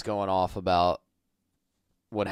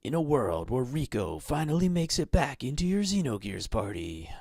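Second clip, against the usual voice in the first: epic trailer announcer read; movie trailer voice; 3 semitones higher than usual. Pretend. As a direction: boom it like a film trailer. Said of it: "A movie is coming to".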